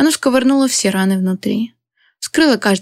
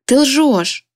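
shout; 5 semitones higher than usual. A narrator's reading. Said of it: "заорала я в трубку".

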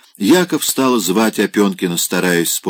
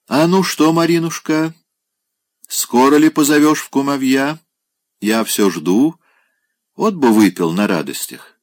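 подвыпивший гость, высоко и заискивающе; пристаёт к Марине, как захмелевший старик; пьяный старик; 7 semitones higher than usual. Acted. (пьяный Опёнкин заигрывает с Мариной, высоко и лукаво)

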